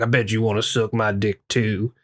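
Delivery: lightly voiced homophobic redneck; a hint of a sneering redneck. Homophobic redneck taunting the two men, lightly voiced. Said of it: "the redneck guy's like".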